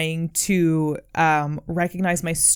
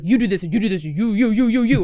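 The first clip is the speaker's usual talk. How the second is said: tag; 2 semitones higher, 3 dB louder, faster than usual. Retold or imitated. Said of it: "this is sounding very like".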